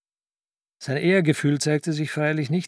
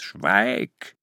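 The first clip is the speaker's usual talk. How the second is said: shouted; 8 semitones lower, 5 dB louder than usual. A narrator's reading. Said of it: "schrie Ambrus Baal".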